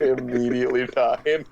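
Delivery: repeating through laughter; laughing. Real, not acted. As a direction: laugh the words out. Echoing with a laugh.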